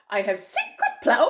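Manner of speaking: loud line in the monkey's voice by mistake; wrong character voice. Acted. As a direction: start the crocodile's line in a monkey voice. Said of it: "oops, wrong voice".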